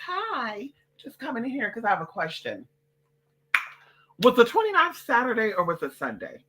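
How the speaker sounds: a hint of a proper lady asking nicely; polite white woman. To the bank clerk, a lightly voiced prim polite lady. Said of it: "I'm going to a very, very white woman first".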